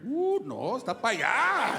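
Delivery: high drawn-out "Ooh, no", lazy pointing tone; lazy cab driver. Retold or imitated. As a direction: brush him off like a laid-back cabbie. Cab driver points far away.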